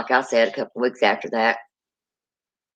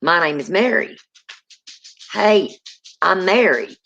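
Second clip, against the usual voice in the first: spirit voice; 4 semitones higher than usual. Retold or imitated. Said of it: "this lady's like".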